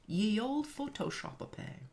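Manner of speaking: put-on "Ye old Photoshop-a-pay" in a hammy Ye Olde voice; renaissance fair olde speech. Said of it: "I'm gonna talk in Old English today".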